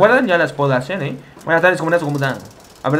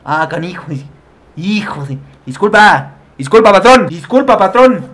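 mock apology; 4 dB louder, slower than usual. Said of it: "y dice".

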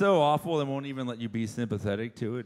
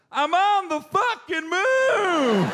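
slow, much higher, yelled; ecstatic shout; 6 dB louder, much slower than usual. Retold or imitated. First man on the moon, ecstatic shout. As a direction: scream it to the universe. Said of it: "you know what you'd say?".

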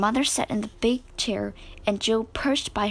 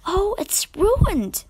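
slow, breathy, high dismayed snap; a high whispered snap, drawn out; snapped; 8 semitones higher, much slower than usual. A narrator's reading. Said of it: "snapped Meg".

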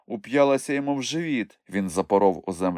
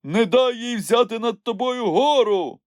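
high, urgent call; warning; 3 dB louder than usual. A narrator's reading. Nyukhmumryk cautions grabbed Moomintroll, urgent warning. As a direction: shout a warning to the fighter. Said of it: "застеріг Нюхмумрик".

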